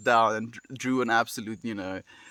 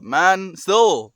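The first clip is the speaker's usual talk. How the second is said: louder, higher groan of "still", slowing down; exasperated impatience; 4 semitones higher, 8 dB louder, much slower than usual. Real, not acted. Impatient waiting for job reply.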